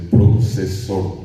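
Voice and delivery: procesor, slow, S where the F should be; child's S for F. Shown as a demonstration. Teacher showing how the child says procesor. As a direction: draw out procesor with an S. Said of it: "dice procesor".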